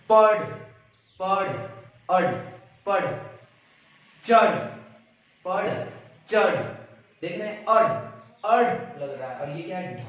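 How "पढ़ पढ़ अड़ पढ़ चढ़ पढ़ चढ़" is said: "पढ़" and "चढ़" louder and higher, ending on a flapped r; teaching pronunciation. Shown as a demonstration. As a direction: drill "चढ़" loudly with the tongue flick. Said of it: "बिंदी लगा देंगे तो".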